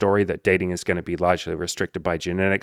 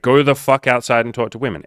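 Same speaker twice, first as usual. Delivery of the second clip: higher, forceful exhortation; emphatic order; 4 semitones higher, 5 dB louder than usual. Real, not acted. Coach orders a complaining dater outside, emphatic. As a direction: push the blunt command hard.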